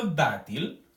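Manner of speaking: "dátil" with a lengthened "dá"; stress on first syllable. Shown as a demonstration. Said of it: "tenemos la sílaba tónica también en la penúltima sílaba".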